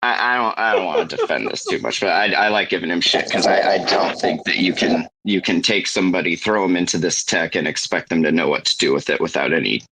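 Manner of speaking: lightly voiced Jacob impression; hint of Jacob's voice. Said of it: "How do you do Jacob's voice so good?".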